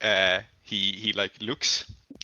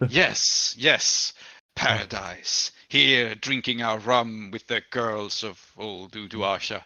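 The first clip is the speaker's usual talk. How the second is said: measured, drawn-out sea captain voice; captain playing along; slower than usual. Game master's captain catches on to the disguise, playing along. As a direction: savor it as a captain in on the act. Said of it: "he catches on. He goes".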